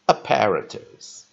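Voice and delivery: "Apparatus" said slowly, stress on the third syllable; slow model pronunciation. Shown as a demonstration. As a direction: spell out "Apparatus" slowly for learners. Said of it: "let's repeat the pronunciation". (慢速示范 "Apparatus")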